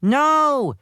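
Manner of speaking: high, drawn-out protest; mock shout of schoolboys refusing; boys shouting. A narrator's reading. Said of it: "shouted all the boys".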